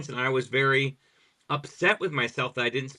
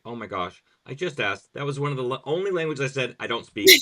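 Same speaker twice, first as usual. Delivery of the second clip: panicked plea; 7 dB louder than usual. Retold or imitated. Retold panic at info booth.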